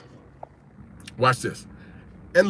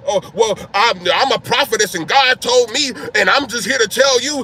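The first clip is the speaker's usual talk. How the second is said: false bravado; 2 semitones higher, 4 dB louder than usual. Retold or imitated. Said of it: "with all that false bravado".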